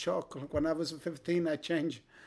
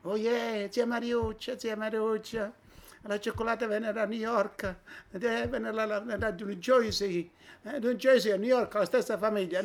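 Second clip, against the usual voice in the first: a lightly voiced Italian village lady, pitched higher; voicing the shopkeeper lady; 4 semitones higher than usual. Grandfather retelling how the lady explained New Jersey, higher voiced. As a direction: play the old aunt explaining, a touch higher. Old woman answers in story.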